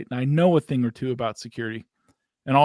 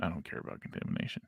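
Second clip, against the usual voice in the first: quick, hushed throwaway remark; whispered aside; 7 semitones lower, 15 dB quieter, faster than usual. Real, not acted. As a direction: whisper it under your breath. Whispered aside after plain claim.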